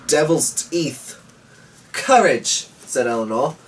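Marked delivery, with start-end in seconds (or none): 0.1-1.1 grumbled. A narrator's reading. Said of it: "grumbled Shonks". 1.9-2.7 high, bright and eager; rally him with one word; bright encouraging call. A narrator's reading. Daughter urging her father on, bright and eager.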